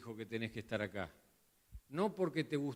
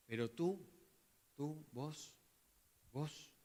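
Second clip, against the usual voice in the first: soft encouragement; 6 dB quieter, slower than usual. Acted. Paul speaking softly to Timothy.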